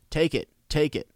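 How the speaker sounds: high, falling bird-like echo; raven's echo. A narrator's reading. Raven echoing about the sword, high call. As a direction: pitch it up like a parroting bird. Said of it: "echoed the ra".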